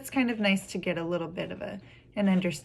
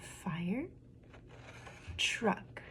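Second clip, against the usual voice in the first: "fire", long pause, softer "truck"; syllable by syllable; 11 dB quieter than usual. Shown as a demonstration. Teacher showing children the syllables, broken apart. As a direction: say "fire" and "truck" as separate parts. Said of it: "count some of the syllables".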